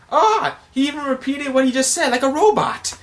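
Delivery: high, loud fanboy excitement; amazed squeal. Retold or imitated. Acts out amazed onlookers.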